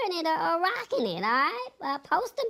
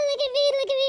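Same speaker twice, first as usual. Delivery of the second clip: excited bragging; 10 semitones higher, much faster than usual. Real, not acted. Celebrating a win on stream.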